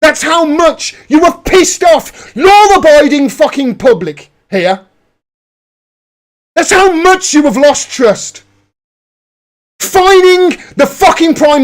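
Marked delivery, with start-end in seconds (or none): 0.0-8.4 outraged shout at the authorities; angry shout. Real, not acted. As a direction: yell it at the police in real anger. Angry rant at police.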